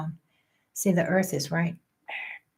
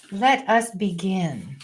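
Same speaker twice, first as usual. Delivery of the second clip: slow, formal announcement; grand opening; slower than usual. Real, not acted. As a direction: open the show with ceremony. Ceremonious opening.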